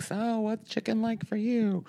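high, soft, slow mock interviewer; a lilting fake small-talk question; mock chat-show host. Mocking the show's abrupt opening as a host. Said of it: "There was no like".

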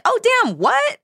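high shocked gasp; shocked surprise. Retold or imitated. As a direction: blurt it out in disbelief. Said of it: "the whole time I was like".

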